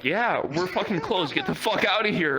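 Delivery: irritated shopkeeper. Retold or imitated. Acted angry shopkeeper turning him away.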